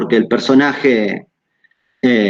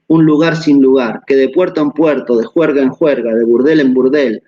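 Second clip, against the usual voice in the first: a lightly raised quoting voice, read out to the class; reading a quote aloud. Acted. Lecturer reads Foucault passage to students, quoting voice.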